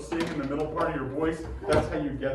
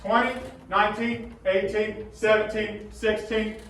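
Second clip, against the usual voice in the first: talking across the room; 2 semitones higher, slower than usual. Shown as a demonstration. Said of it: "talk to Mister McKissick".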